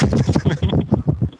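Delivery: short breathy, voiceless laugh; chuckle. Real, not acted. Guest joking about where he lives, breathy chuckle. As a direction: chuckle airily at the joke. Laughs over his town joke.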